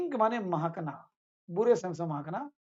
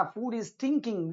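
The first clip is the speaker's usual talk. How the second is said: slow example phrase; 2 semitones higher, much slower than usual. Shown as a demonstration. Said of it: "example sentence for students".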